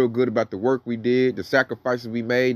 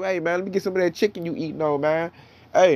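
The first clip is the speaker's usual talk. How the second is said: a higher, lightly played plea for food; mock begging; 4 semitones higher than usual. Unbelievers begging the elect for chicken, in a higher mock plea. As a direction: imitate someone begging for a bite, half-hearted. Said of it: "They gonna be begging us".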